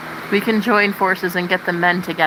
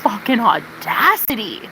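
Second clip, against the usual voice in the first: slow, outraged disbelief; indignant disbelief. Retold or imitated. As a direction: drag it out, appalled. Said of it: "I was like".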